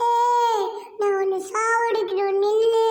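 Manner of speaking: loud, eerie ghost threat; booming spooky menace; menacing ghost. Acted. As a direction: shout it as a chasing ghost. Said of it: "நான் தான் பேய்".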